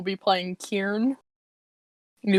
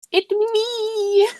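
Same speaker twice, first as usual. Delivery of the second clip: excited; 11 semitones higher than usual. Real, not acted. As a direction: burst in with glee. Player spots own character.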